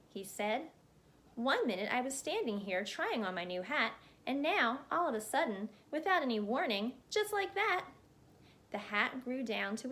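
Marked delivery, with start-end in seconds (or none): 1.3-7.9 a hint of a chatty man getting flustered, pitch climbing; lightly voiced chatterbox, rising in alarm. Mister Chatterbox trapped under his growing hat, flustered chatter. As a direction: babble faster and higher as the hat swallows you.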